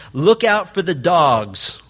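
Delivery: slow, deliberate quote, each word weighed; slow warning. Retold or imitated. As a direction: lay out "Look out for the dogs." slowly and heavily. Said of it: "Paul comes out with his guns blazing".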